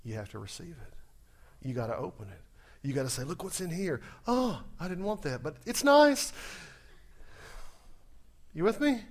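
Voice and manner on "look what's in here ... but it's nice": lightly voiced forced politeness; polite disappointment. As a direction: act let down but gracious. Acting polite gift receiver.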